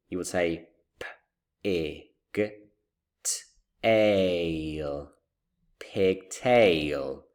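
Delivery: spelling "pigtail" letter by letter, then blending it; sounding out words. Shown as a demonstration. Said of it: "You need to sound out".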